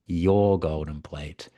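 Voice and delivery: YOUR stretched out slowly; slow, deliberate YOUR to insist; stress on YOUR. Acted. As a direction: spell it out slowly, weight on "your". Repeats whose plate it is.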